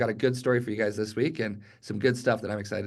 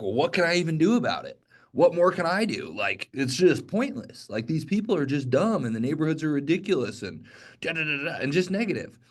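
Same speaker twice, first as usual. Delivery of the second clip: higher, hopeless mock complaining; negative whine; 4 semitones higher than usual. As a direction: throw your hands up and whine. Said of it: "in, like, a negative way".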